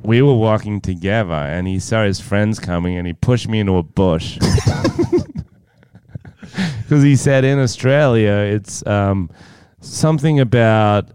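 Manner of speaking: lightly voiced American girlfriend; a hint of an American girlfriend; American girlfriend impression. Playing own girlfriend defending the boyfriend, light American voice. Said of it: "he has to impersonate his mysterious American girlfriend".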